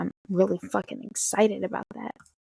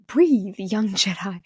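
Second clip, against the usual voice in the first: slow, drawn-out mentor line; mock-sage slow delivery; imitated Jedi master; much slower than usual. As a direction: draw it out like a wise master calming a pupil. Retold star calming breathless fan.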